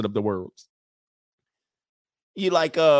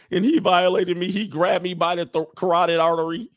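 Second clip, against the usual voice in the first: higher, hammed-up complaint; lightly imitated aggrieved woman; mock accuser; 5 semitones higher, 3 dB louder than usual. Comic as a woman accusing years later, mock-aggrieved.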